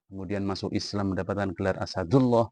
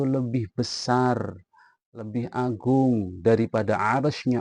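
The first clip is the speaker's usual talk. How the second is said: louder, higher questions building; urgent interrogation; 3 semitones higher, 5 dB louder than usual. Retold or imitated. Rasulullah questioning the youth about his sins, loud and mounting. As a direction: press each question harder.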